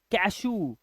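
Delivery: कैशू said "ka-shoo", long oo ending; oo sound. Shown as a demonstration. Teacher demonstrating the rule on कैशू, long oo. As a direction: lengthen the final oo of कैशू. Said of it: "अब इसका उच्चारण क्या है?".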